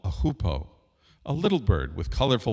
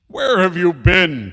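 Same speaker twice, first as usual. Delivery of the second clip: loud, high, slow demand; angry demand; 8 semitones higher, 9 dB louder, slower than usual. Acted. King confronts the late hoopoe, demanding loudly. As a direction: demand an answer as a furious king. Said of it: "King Solomon demanded".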